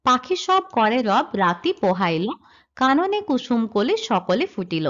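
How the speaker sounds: slow, measured verse reading; poem recitation. Shown as a demonstration. Teacher reciting the example verse to students, slow and measured. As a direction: recite the couplet slowly, line by line. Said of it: "যেমন অংশে লেখা আছে".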